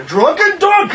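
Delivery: high, loud laughing cry; excited shout. Real, not acted. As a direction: cheer it out with delight. Cheering the drunk donkey idea.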